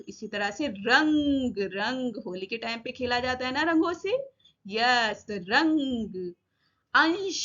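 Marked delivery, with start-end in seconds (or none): 0.7-1.6 रंग with the n drawn out before the g; slow रंग, the dot clearly sounded; nasal half-n sound. Shown as a demonstration. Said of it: "उच्चारण होता है आदि ना के समान". 5.3-6.3 रंग very slowly, holding the n before the g; drawn-out रंग to demonstrate the dot's sound; nasal half-n sound. Shown as a demonstration. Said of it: "उच्चारण होता है आदि ना के समान".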